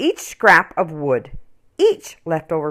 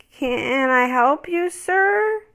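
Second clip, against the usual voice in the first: higher, slow friendly toymaker; higher kind little toymaker; gentle toymaker Alfie; 9 semitones higher, much slower than usual. Acted. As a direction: greet the child kindly. Alfie opens door at night.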